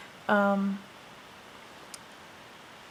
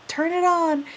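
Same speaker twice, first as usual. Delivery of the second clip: put-on higher, clipped order from an old man; bossy old grandpa; 7 semitones higher, slower than usual. Grandpa orders granddaughter at sprinkler, bossy command. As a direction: play the grandpa overseeing the job.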